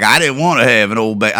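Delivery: put-on mom voice. Vlogger mocking the mother's line in a lightly put-on voice. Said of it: "I don't know why I'm doing it like that".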